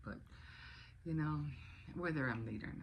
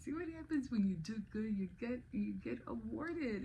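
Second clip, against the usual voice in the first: inner voice; 9 semitones higher than usual. Retold or imitated. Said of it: "in my head, I said".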